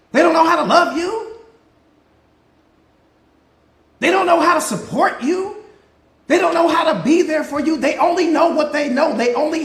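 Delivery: rising intensity. Acted. Sermon building up.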